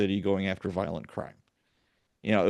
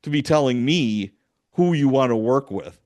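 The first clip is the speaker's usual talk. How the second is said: louder, sharp dressing-down of a rookie; stern scolding; 2 semitones higher, 5 dB louder than usual. Retold or imitated. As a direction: lay down the law, raised voice. Sergeant scolding a crying rookie.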